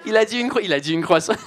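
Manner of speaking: laughing, incredulous; mocking baker. Baker telling her colleague, laughing in disbelief. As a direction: baker calling out the blunder.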